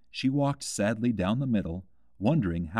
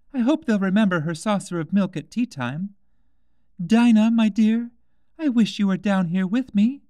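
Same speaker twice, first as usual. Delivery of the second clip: put-on high, louder girlish voice calling to her cat; young Alice missing her cat; 11 semitones higher, 7 dB louder than usual. A narrator's reading. Alice calling to her cat Dinah, high and fond. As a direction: call out fondly to the absent cat.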